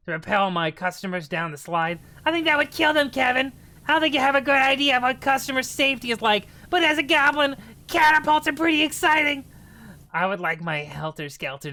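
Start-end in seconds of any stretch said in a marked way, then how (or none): 2.2-9.4 high, loud goblin scolding. Acted. Goblin lecturing Kevin about customer safety, high and loud. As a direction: chide Kevin like an excited goblin. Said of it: "am doing lots of voices here".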